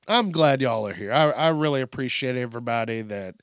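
an accidental touch of Southern twang; slight Southern twang. Real, not acted. Host thanking listeners, twang slipping in. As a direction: let a little twang slip in. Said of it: "that twang came from".

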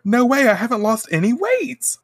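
hammed-up outraged dieter; mock indignant. Salon customers waking up still heavy, mock indignant whine. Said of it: "they wake up and they're like".

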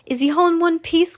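high, worried mother's question; anxious cry. Acted. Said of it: "cried Missus T V".

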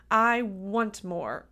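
slow, lightly voiced child's demand. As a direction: draw it out like a wanting kid. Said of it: "you might hear your child voice say things".

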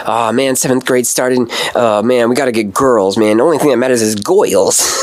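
put-on light Cagney-style accent on a kid's griping. Friend quoting a girl-crazy seventh grader, mock Cagney accent. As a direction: lightly imitate a Cagney tough-guy accent. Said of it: "he would talk in this Cagney accent".

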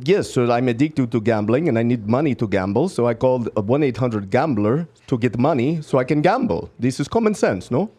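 put-on Russian accent, insisting; stubborn caller in a Russian accent; fake Russian accent. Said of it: "What part of Russia was that accent".

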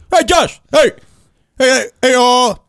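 high, nerdy eager calling out; neighbor like Rick Moranis. Retold or imitated. Comic doing his neighbor hollering over the fence, high and nerdy. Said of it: "sounds like Rick Moranis from Ghostbusters".

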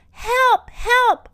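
high, loud cries for help; storybook shout of alarm; acted yell. A narrator's reading. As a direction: yell for rescue. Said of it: "I yell too".

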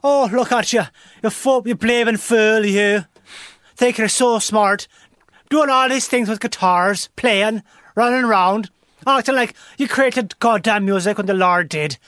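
put-on Irish old woman. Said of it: "Is it problematic if I do an Irish voice?".

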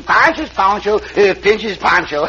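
slow, savoring each word; slow poem recital. Acted. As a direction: recite it slowly and proudly. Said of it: "Pancho make up a poem about this poncho".

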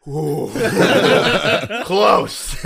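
laughing through ooh close; amused drill sergeant. Retold or imitated. Drill sergeant laughing at recruit's near-miss salute, amused. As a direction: chuckle it out, teasing. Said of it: "drill sergeant was just like".

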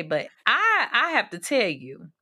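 real tears breaking through; getting emotional mid-sentence; choked up. Real, not acted. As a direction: voice catching on a sob. Host moved while praising guest.

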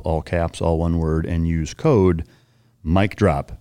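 measured sponsor read, even and deliberate. Acted. Host pitches sleep powder to listeners, ad read. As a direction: read out the offer, spacing the code slowly.

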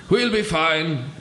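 high slow read of the line; first take, too high. Shown as a demonstration. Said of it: "Actually, that should have been like".

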